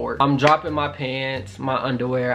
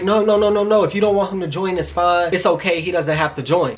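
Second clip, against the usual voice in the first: higher-pitched, placating mock reassurance; hurried backtracking; 3 semitones higher than usual. Imitating the hookup calming him down, hurried backtracking. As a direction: imitate someone rushing to take it back. Acts partner hastily backtracking.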